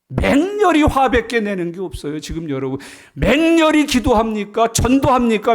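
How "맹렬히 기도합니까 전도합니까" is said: preaching challenge. Acted.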